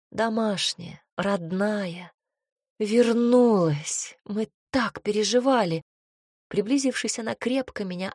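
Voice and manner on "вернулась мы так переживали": excited. Acted. Mother greets returning daughter.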